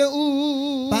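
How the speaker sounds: boo-hoo in a put-on cry; mock crying. Teacher crying for the injured friend, mock sobbing. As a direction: pretend sobs.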